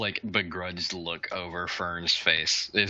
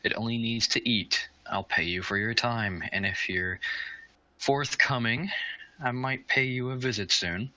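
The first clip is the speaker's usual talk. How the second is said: much higher, wheedling bargaining voice; coaxing Fern; 5 semitones higher than usual. Acted. Fern bargaining with Matilda, higher and wheedling. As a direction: sweet-talk her into it.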